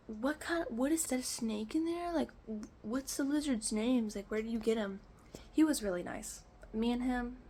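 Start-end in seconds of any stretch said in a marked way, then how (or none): 0.1-5.0 lightly voiced mover. Retelling the mover asking about her lizards, lightly voiced. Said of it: "So he's like".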